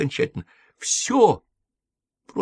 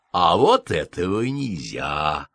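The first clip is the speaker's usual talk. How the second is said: gently; 8 semitones lower, slower than usual. A narrator's reading. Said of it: "ласково сказала нянька".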